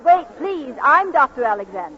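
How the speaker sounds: insistent protest. Acted. Woman being carried protests.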